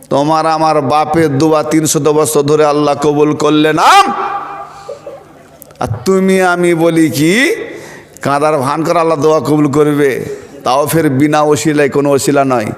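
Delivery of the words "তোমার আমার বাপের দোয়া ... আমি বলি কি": ordinary talk, nothing marked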